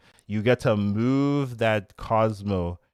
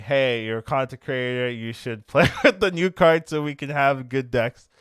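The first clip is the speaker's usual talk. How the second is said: raised, slightly laughing imitation of nagging viewers; mock chat yelling; 4 semitones higher, 4 dB louder than usual. Chat urging the creator to play the card, mock yelling. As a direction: imitate pestering chat with a mild yell. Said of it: "my chat was kinda yelling at me".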